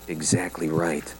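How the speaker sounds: guarded monotone; husband hiding the call from his wife; flat and quiet. A narrator's reading. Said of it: "in that funny flat voice, so quiet".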